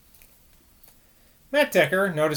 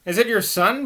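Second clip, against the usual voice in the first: startled; 8 semitones higher, 4 dB louder than usual. A narrator's reading. Alarmed question at night.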